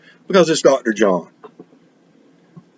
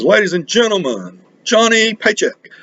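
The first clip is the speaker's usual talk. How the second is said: high, ringing announcer call, much higher; announcer intro; 11 semitones higher than usual. Retold or imitated. PA announcer introducing the headliner to the crowd, high showy call. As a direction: boom it out like a concert MC. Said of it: "the P A announcer says".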